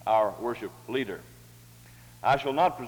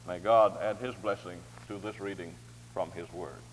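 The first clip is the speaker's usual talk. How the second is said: low, softening benediction; spoken blessing; 5 semitones lower, 6 dB quieter than usual. Real, not acted. Blessing the reading from God's word, low and reverent. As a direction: close the reading gently, sinking away at the end.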